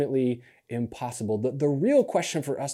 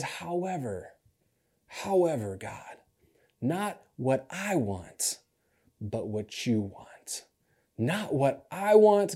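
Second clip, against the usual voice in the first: surrendering prayer; slower than usual. Acted. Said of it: "Jesus goes on and he says".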